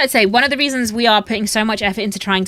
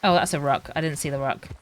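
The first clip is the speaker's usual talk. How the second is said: usual speaking voice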